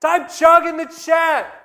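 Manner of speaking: loud, high party-bro hype; frat bro. Acted. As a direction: pump up the crowd like a frat bro. Hyping a beer chug.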